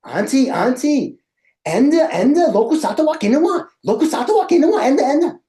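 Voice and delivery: high, frantic calls for his host aunt; panicked shouting in Sinhala, pitch way up; yelling in Sinhala. Retold or imitated. Calling his host mom about the lizard, frantic high yell. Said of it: "I'm yelling at my host mom".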